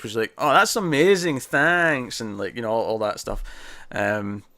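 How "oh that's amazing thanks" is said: high, slow sugary fake nice voice; fake sweetness. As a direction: gush with put-on niceness. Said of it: "she's doing her fake nice voice".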